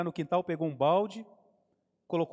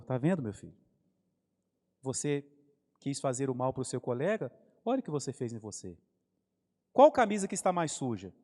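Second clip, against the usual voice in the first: gentle father; 3 semitones lower than usual. Retold or imitated. Father gently teaches the lesson.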